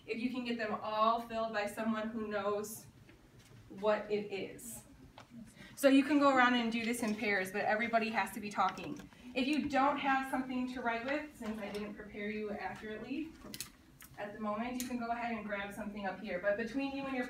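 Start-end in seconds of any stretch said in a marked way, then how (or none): 5.8-11.2 classroom call. Real, not acted. Teacher directing the class.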